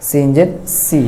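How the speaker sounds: সিন জের সি with a clear short i; সি said with the kasra i sound, not সে; read with kasra. Shown as a demonstration. Teacher showing kasra to students, clear short i. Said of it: "এরকম রসিকার দিয়ে পড়তে হবে".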